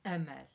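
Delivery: أمل with a slight glottal catch; أمل with glottal stop. Shown as a demonstration. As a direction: catch the throat before أمل. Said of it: "very slight glottal stop".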